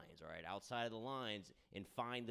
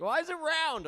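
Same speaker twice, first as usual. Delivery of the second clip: high, loud mock shout of the question; 14 dB louder than usual. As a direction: yell it up high like a heckler. Heckler-style high mocking question.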